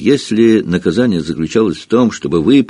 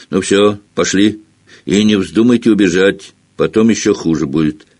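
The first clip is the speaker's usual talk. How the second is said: menacing caretaker. Acted. Filch speaks to pupils.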